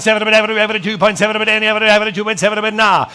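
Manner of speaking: rapid auction chant; auctioneer. Acted. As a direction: rattle off bids like an auctioneer. Auctioneer running the bidding.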